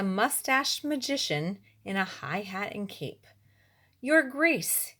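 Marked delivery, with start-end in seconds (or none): 4.0-4.9 higher, ringing court announcement; grand announcement. Acted. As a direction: magician announcing himself to the king. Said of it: "he announced".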